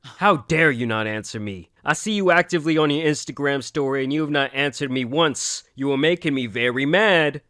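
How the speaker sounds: half-hearted furious read of a creepy message; mock angry read. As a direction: act out an aggressive stalker's demand. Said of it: "Extremely aggressive".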